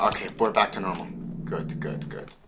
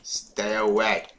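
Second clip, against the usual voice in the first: slow warning; 3 dB louder, much slower than usual. Real, not acted. Warding off mobs.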